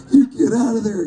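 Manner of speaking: a nervous voice actor's attempt at fear; scared line read. Actor obeying the director's note to sound scared. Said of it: "you're scared".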